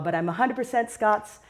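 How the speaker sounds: put-on "a hundred percent Scots" in a light Scottish accent. Teacher claims her Scottish roots, light Scottish accent. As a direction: say "Scots" with a proud Scottish lilt. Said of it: "I'll put on my American accent".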